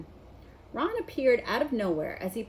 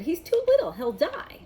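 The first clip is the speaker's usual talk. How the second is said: fretful; 9 semitones higher, 5 dB louder than usual. A narrator's reading. Hagrid fretting for dragon.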